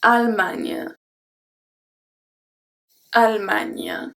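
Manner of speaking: Allemagne as al-man, falling; correct pronunciation. Shown as a demonstration. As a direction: say Allemagne cleanly, no final E.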